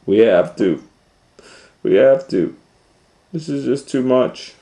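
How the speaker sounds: lightly voiced parents insisting; firm parent voice. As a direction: insist with weary firmness.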